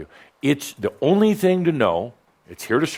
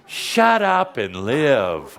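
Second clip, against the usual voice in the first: slow, stately mock-grand title; mock sophisticated; much slower than usual. Teacher unveiling a revised book title, mock sophisticated. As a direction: announce it slowly, as if it were refined. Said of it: "make it a little more sophisticated".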